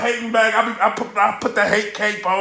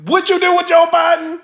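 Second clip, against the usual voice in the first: mocking rival; 5 semitones higher than usual. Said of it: "King Los just taking that knife".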